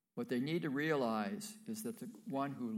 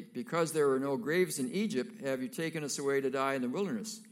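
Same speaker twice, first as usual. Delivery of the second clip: louder, bitter grumbling, quicker at the end; complaining Israelites; 2 semitones higher, 5 dB louder than usual. Acted. Frightened Israelites blaming Moses at the sea, bitter. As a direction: blame Moses with a sneer.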